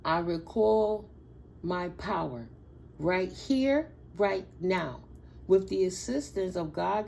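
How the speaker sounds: slow, deliberate affirmation with pauses; calm prayer-like affirmation. Shown as a demonstration. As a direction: speak each line like a vow. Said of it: "I'ma read that one more time".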